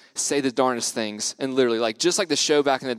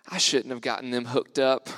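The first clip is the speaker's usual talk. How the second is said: put-on deep Southern accent; 3 semitones lower than usual. Sad camp girl confiding at lunch, in a deep Southern accent. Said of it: "deep Southern accent".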